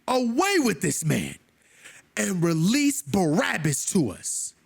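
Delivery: crowd's demand, half-shouted; mock crowd shout. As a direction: call it out like the mob. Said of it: "They loudly shouted out all together".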